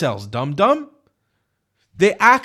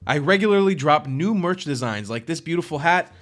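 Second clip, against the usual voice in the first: lower, softer sponsor-style read; scripted promo read; 5 semitones lower, 4 dB quieter than usual. Real, not acted. Creator asks viewers to support the channel, promo read. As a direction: read the plug smoothly and evenly.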